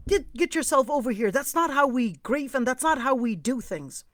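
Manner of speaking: rally a weeping friend with firm insistence; firm admonishing. Retold or imitated. Scolds and rallies a crying friend.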